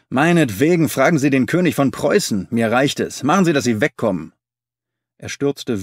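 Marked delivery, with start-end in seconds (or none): 0.1-4.3 angry. Acted. Dealer chases man off.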